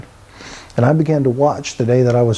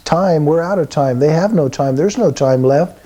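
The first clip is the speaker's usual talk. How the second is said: raised, agitated mock yell; retold frantic shout; 3 semitones higher than usual. Doctor shouting at the old man that time is up, mild mock yell. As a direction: snap back in a panic, lightly voiced. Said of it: "the doctor's screaming at him".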